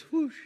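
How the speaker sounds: high, quick falling whoosh; plane whoosh. Shown as a demonstration. Preacher pointing out the plane, high quick whoosh. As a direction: imitate a plane zipping overhead. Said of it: "A plane goes".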